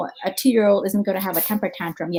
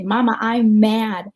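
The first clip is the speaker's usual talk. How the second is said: put-on slow, louder mad little girl; imitating her toddler; 6 dB louder, slower than usual. Mom quoting her daughter, slow and louder, mock mad. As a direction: stretch it out like a toddler stomping her foot. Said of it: "My little one just started to say".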